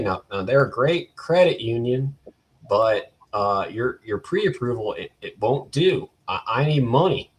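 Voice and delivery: lightly put-on Kentucky accent of a dismissive finance manager; mock a Kentucky car dealer's accent, badly. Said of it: "gonna do a bad, uh, accent impression".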